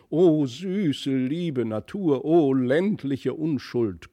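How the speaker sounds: high, slow, hammed-up cooing; lightly voiced grand lady exclaiming; loud gushing exclamations. A narrator's reading. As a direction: coo over the children theatrically. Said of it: "unter lauten Ausrufungen".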